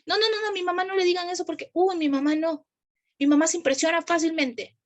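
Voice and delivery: a mock-fretful adult shielding mom; hurried imitation of a worried grown child; anxious adult voice. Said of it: "¿Han escuchado eso incluso en adultos?".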